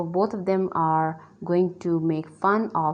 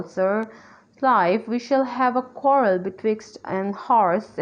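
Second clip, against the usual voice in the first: higher-pitched, declaimed play reading; lightly acted Missus Marwood; 4 semitones higher than usual. Missus Marwood intervening between quarrelling men, lightly acted in a higher voice. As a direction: step in with a raised, stagey voice.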